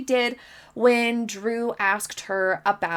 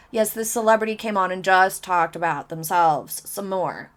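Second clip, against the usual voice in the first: mock celebrity; 3 semitones lower than usual. Mocking a self-focused guest.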